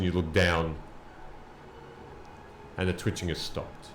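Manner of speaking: slow, measured narration with long pauses; deliberate, suspenseful storytelling; game master's scene setting. Acted. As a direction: draw out the suspense phrase by phrase.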